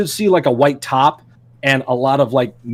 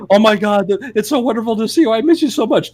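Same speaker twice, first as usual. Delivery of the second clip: mom's greeting; 7 semitones higher than usual. Retold or imitated. Voicing the tearful mother's greeting.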